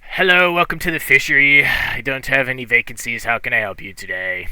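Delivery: loud, brisk fisherman innkeeper greeting; gruff old fisherman. Acted. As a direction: boom out a fast welcome.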